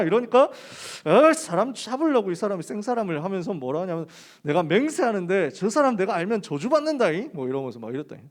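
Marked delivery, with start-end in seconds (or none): 1.0-3.2 mock outrage, pitched higher and louder; indignant protest. Peter cornered by a third accuser, mock indignant. 4.4-7.3 mock-vehement swearing, slightly raised; cursing oath. Peter denying Jesus a third time, mock cursing oath. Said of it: "저주하면서 맹세했다니까".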